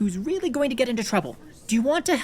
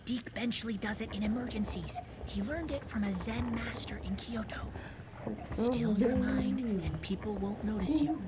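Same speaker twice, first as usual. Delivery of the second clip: hushed whisper; 11 dB quieter than usual. Acted. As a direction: keep it hushed while hiding. Whispering while someone enters.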